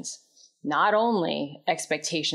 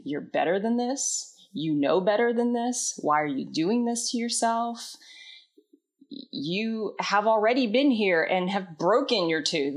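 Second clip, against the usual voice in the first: higher, nagging scold at herself; scolding inner critic; 4 semitones higher than usual. Retold or imitated. Inner critic berating her for the broken tooth, higher scolding voice. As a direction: hector yourself like a harsh inner roommate. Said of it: "it sounded like this".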